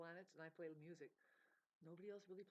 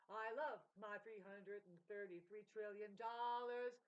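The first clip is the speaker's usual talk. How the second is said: slow, smug, louder mock brag; mock gloating; 6 dB louder, slower than usual. Mocking the world's greed with slow smug gloat. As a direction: savour each word like a gloating tycoon.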